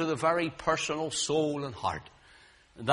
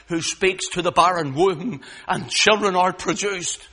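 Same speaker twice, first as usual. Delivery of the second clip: louder, emphatic pulpit delivery; rising preaching; 4 semitones higher, 7 dB louder than usual. Real, not acted. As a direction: preach it with growing force. Preaching rises in force.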